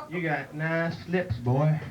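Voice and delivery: slow, leering drawl; a hint of a creepy mountain man; lightly voiced hillbilly villain. Deliverance villain leering at his victim, slow.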